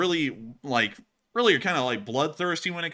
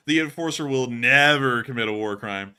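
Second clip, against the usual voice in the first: "The" punched louder; emphasis demo; 4 dB louder than usual. Shown as a demonstration. Streamer shows how stress changes meaning, punching "The". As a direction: hit "The" hard and loud. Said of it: "put emphasis on each word".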